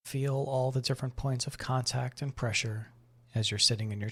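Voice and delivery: calm, measured meditation voice with long pauses; guided meditation. Acted. Host guiding listeners to breathe and notice the body, guided meditation. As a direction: ease them gently through breath and body awareness.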